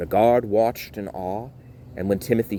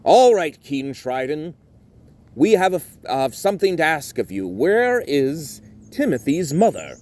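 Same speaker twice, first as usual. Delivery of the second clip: Roger's voice; 7 semitones higher, 4 dB louder than usual. Acted.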